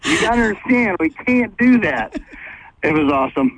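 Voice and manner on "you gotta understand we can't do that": put-on Aussie accent. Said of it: "That's a pretty good Aussie accent you're doing".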